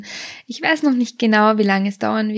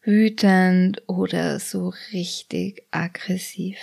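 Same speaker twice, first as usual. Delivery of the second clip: whisper; 2 semitones lower, slower than usual. Acted. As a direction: drop into a hushed whisper. Whispered list of feelings.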